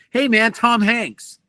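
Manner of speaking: slow high imitation of a star greeting a kid; Tom Hanks greeting. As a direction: greet him warmly and slowly, like a famous actor. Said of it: "he says".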